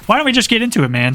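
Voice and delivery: upbeat YouTube intro host; generic YouTuber voice. Pretend. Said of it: "Generic YouTuber Voice here".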